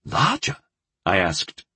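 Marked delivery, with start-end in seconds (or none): 0.1-0.6 sharp rising question of disbelief; surprised, pitched way up; amazed. A narrator's reading.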